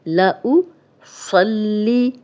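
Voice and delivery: لأصلی recited slowly with heavy ص and a rise at the end; slow tajweed recitation; Quranic recitation. Shown as a demonstration. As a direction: draw لأصلی out, ص thick. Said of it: "صاد موٹا پڑھیں گے".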